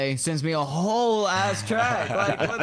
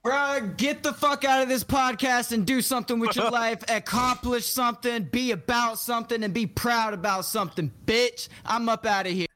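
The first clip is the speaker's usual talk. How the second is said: slam voice; 5 semitones higher than usual. Pretend. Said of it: "go ahead and get the outro in your, in your slam voice".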